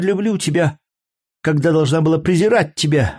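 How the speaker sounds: a jealous lover lashing out at her man; angry courtesan. Acted. Courtesan's voice in the quarrel. (разгневанная куртизанка)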